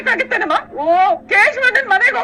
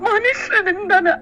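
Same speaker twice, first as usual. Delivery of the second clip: slow, crying words; slow tearful grieving; tearful lament; 4 semitones lower, much slower than usual. Acted. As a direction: drag it out through tears. Distraught mother, husband missing.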